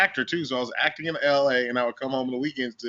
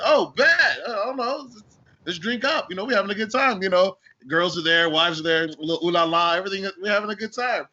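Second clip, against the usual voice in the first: pitched way up, bursting with party excitement; excited yelp; 5 semitones higher than usual. Retold or imitated. Retelling to host how he joined the boat party, excitedly high and eager. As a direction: hype yourself up like the boat party is on.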